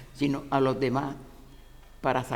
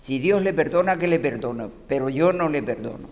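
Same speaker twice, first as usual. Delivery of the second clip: louder, slowed and unbending; firm refusal; 5 dB louder than usual. Retold or imitated. Widow refusing to forgive the priest, loud and stern. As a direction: spit out the refusal like a grieving widow.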